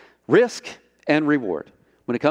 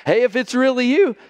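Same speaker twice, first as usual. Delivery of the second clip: higher, offhand throwaway dare; casual Peter; 9 semitones higher than usual. Acted. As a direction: toss it off like a careless bluff.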